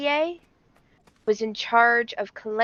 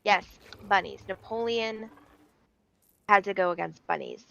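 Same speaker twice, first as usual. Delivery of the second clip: storyteller with suspenseful pauses; theatrical history storytelling; dramatic story narration. Acted. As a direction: spin it like a grand tale, pausing before reveals. Tells a history story to stream.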